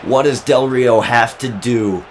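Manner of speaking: punchy wrestling commentary; live play-by-play. Acted. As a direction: call the near fall with punch.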